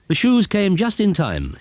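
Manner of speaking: high, slow witch voice; a pleased little witch, drawn out. Acted.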